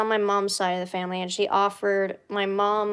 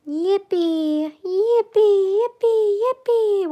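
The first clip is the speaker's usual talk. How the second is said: high squeaky cheering; excited cheer; 11 semitones higher, 5 dB louder, much slower than usual. Real, not acted.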